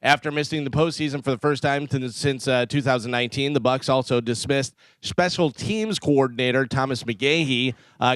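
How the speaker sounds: steady radio news read; sports desk reading the day's coaching changes. Acted. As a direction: deliver the headlines like a newscaster. Reads the sports news segment.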